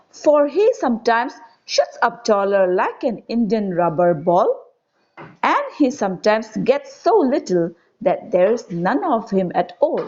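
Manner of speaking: put-on measured, lilting verse reading to children; poem recitation. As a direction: recite it line by line with lifted key words. Reads the next stanza.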